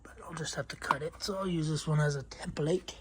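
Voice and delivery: panting between words; worn out and short of breath; heavy breathing. Real, not acted. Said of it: "Sorry, I'm breathing heavy".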